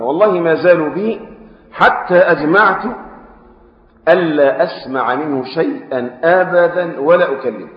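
slow classical recitation; recited quote. Acted. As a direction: intone the old narrator's words slowly. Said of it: "طفيل يقول بقى". (تلاوة متأنية لكلام الطفيل)

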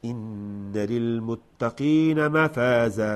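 slow melodic chant; Quran recitation. Shown as a demonstration. Teacher modelling the verse, slow melodic recitation.

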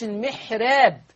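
"المحراب" mit hellem, dünnem Ra, laut; "المحراب" Ra nicht schwer aussprechen; dünnes Ra. Shown as a demonstration. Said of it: "الراء مرققة لورش".

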